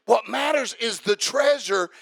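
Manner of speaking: rising preacher's cadence, punching each line; Sunday-night sermon at full fire; full-force preaching. Real, not acted. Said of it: "but I feel preachy".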